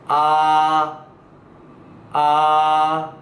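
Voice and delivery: "아" held long and level; Mandarin vowel demo. Shown as a demonstration. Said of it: "발음과 함께 배워보도록".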